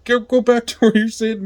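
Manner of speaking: high mock guard order with a laugh breaking in; guard yelling. Guard orders the inmate back to his table, high mock shout. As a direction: send him back to his seat like a guard.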